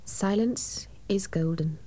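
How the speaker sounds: soft playful whisper. Pretend. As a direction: breathe it out as a joke. Whispers the proverb about silence.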